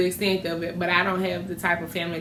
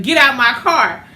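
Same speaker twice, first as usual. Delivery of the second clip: mock yell; 3 semitones higher, 6 dB louder, slower than usual. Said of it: "she started yelling".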